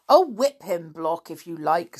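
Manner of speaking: sneering villain, loud. Acted. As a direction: careless cruel order. Villain Barling speaking.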